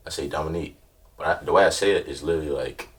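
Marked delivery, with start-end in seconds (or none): 0.3-0.8 low monotone. Retold or imitated. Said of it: "very low, very monotone type voice".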